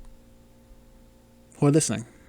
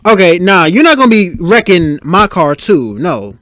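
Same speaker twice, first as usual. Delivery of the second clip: playful angry warning at a movie character; mock angry. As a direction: tell off the driver on screen. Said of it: "easy to sound angry in any language".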